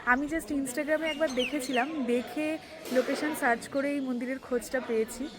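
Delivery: hushed temple voice; soft, subdued vlog chat; speaking softly. Real, not acted. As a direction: talk quietly to the camera in a peaceful temple. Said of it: "আমি খুব আস্তে আস্তে কথা বলছি".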